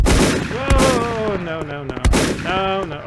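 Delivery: frantic no's under fire; panicking gamer. Real, not acted.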